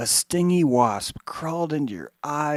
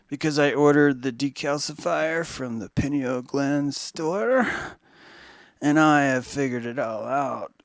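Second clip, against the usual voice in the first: a cocky know-it-all, slowed and louder on the gland line; smug mocking voice; 4 dB louder than usual. Mocking our old smug selves to the audience, cocky know-it-all. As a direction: brag like a smug fool who thinks he's too clever.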